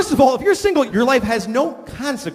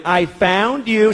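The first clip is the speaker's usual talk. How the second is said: smug gloat; 3 semitones higher, much slower than usual. Retold or imitated. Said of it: "She comes in".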